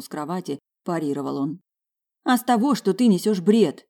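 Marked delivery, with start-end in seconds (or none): 2.2-3.9 angry retort. Acted. Wife quarrels with husband.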